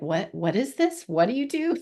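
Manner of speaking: imitating puzzled officials, pitch jumping up on the question; mock bafflement, rising at the end; baffled officials. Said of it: "They're like".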